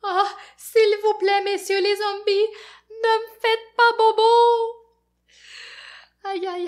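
high, loud pleading; frightened begging. Acted. Fafounet begging the zombies not to hurt him, panicked.

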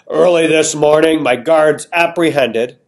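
a hint of a grand king, slow on apprehended; lightly voiced king. King Carnine addressing the crowd, lightly pompous. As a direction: address the court with mild pomp.

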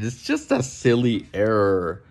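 a put-on voice, sounding unlike himself, airily brushing it off; mocking the machine. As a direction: parody a smug machine waving away the error. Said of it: "stupid machine is trying to tell us".

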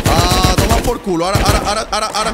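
loud triumphant outburst; excited yell. Real, not acted. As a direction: shout it as the enemy falls. Winning a gunfight.

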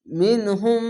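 মিনহুম chanted with held nasal hum; drawn-out nasal মিনহুম; tajweed recitation. Shown as a demonstration. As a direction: hold the গুণনা in মিনহুম. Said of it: "গুণনার নাম".

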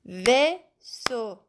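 Vaisseau softly split into two clapped beats, vais-seau; clapping syllables. Shown as a demonstration. Teacher clapping out Vaisseau so pupils can listen.

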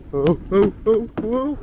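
startled whoa. Real, not acted. Losing footing on a ride.

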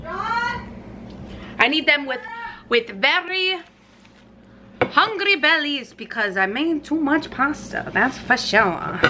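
hammed-up, loosely French accent; put-on odd accent. Cook asking the family for help, muddled put-on accent. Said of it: "I don't know what accent I'm speaking in".

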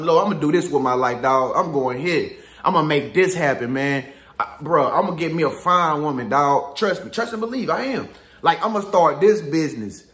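low, swaggering vows of a dreamer, voice dropped well down; mock younger self. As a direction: boast like the guy nobody believed, deep and sure. Imitating his own old vows.

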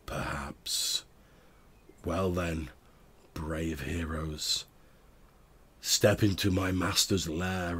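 a warped voice echoing down corridors; distorted voice. Acted. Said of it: "this strangely distorted voice of the Necromancer's apprentice".

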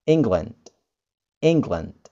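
England said ING-glund, E as I; England with an I sound at the front; English England. Shown as a demonstration. Teacher models England, E sounding as I. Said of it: "gampang kan?".

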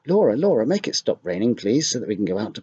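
high, loud pleading call of schoolchildren; children calling. Acted. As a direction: call out across the playground, begging.

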